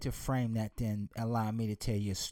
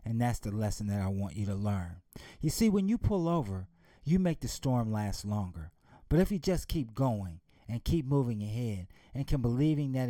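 father's lesson; 4 semitones lower than usual. Acted. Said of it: "He said".

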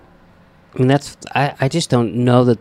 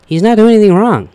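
mock indignant outburst; 8 semitones higher, 7 dB louder than usual. Defending Howard, imagined.

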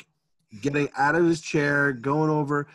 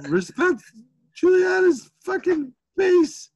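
high-pitched exasperated yell; going off; 5 dB louder than usual. Retold or imitated. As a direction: hammer each word as a screaming parent at wit's end. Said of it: "I just start going off".

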